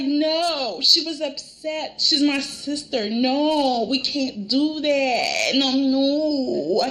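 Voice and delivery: drawn-out, wailing refusal; mock distressed protest. Recapping Brooke refusing Bill, mock distressed. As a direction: play up an upset, pleading no.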